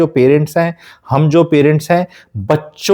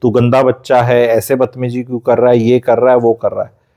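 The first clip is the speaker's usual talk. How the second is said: lower, lightly voiced nagging parent; a hint of a parent scolding the child; mock scolding parent; 4 semitones lower than usual. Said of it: "कि".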